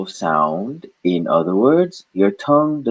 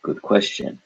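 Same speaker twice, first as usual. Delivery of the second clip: whispered aside; 5 dB quieter than usual. Acted. Voicing the student's question.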